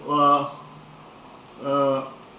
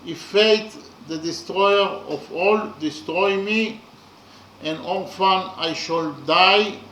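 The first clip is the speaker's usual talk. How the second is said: louder, measured reading of a solemn stanza; poem recitation; 3 dB louder than usual. Acted. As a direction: recite it like an epic poem, with weight. Reads translated stanza aloud.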